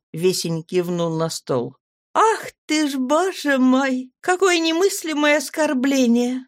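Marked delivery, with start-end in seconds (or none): 2.1-6.5 high, slow, hammed-up wailing; mock lament. Girl teases the young healer, mock lamenting. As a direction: wail in fake outrage over the books. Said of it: "запричитала я".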